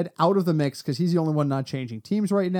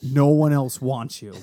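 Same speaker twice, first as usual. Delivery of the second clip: slow, lightly gruff Nick Nolte; a hint of a cold stepfather sneer; 2 semitones lower, 3 dB louder, slower than usual. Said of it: "I went to the Nick Nolte voice again".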